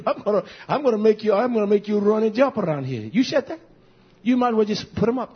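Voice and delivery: high, excited schoolyard jeering; taunting fight crowd. Retold or imitated. Preacher voicing schoolboys hyping a fight, high excited jeering. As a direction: jeer like a kid at a scrap.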